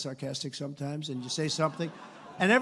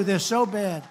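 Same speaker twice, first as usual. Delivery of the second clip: usual speaking voice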